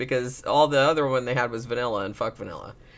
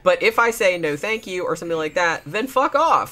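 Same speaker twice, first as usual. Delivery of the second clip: firm retold rule; 5 semitones higher than usual. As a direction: snap it out as a firm boundary. Retelling her firm rule.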